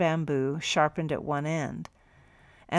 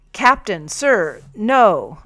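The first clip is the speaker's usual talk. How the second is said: pleaded; 4 semitones higher, 8 dB louder, much slower than usual. A narrator's reading. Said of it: "I pleaded".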